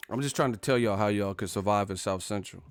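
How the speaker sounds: usual speaking voice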